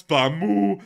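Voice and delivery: goofy farmyard noises for the viewers; animal noises. Pretend. Host acts out a viewer's animal noises, high silly bleats. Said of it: "me doing the animal noises".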